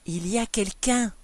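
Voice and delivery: husband faltering with dread; stunned, understated fear; faint murmur. A narrator's reading. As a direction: say it as if about to faint. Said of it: "Il murmura défaillant".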